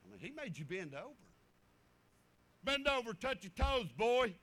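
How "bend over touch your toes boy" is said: loud, gruff coach command; shouted order from an old-school coach; coach barking order. Retold or imitated. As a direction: bark it at the boy like a stern coach. Coach orders boy to bend.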